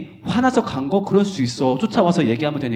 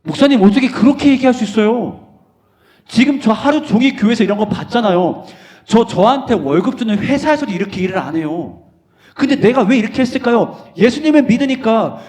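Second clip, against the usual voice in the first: much louder, higher indignant outburst; shocked protest; 7 semitones higher, 6 dB louder than usual. Acted. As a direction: protest to the pastor, stung. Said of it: "엄청 충격받을걸". (목사님께 따지는 청년, 충격받아 크게 항의)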